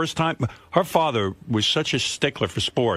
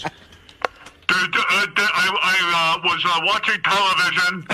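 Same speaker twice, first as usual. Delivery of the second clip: hesitant father; 7 semitones higher than usual. Retold or imitated. Son imitating dad stumbling into a talk, higher and halting. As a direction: fumble for the words like dad. Father fumbling in retold story.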